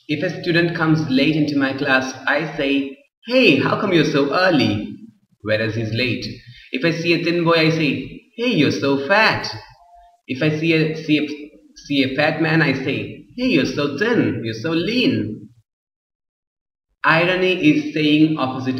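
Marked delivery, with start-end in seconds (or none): 3.3-5.0 high, mock-surprised greeting to a latecomer; teasing irony, pitch leaping up; ironic greeting. 8.4-9.5 higher-pitched mock exclamation; teasing, pitch jumping up; ironic teasing. Acted ironic remark to thin boy. 13.4-15.5 high mock compliment, stretched at the end; teasing, pitch jumping up; ironic teasing. Acted ironic remark to fat man.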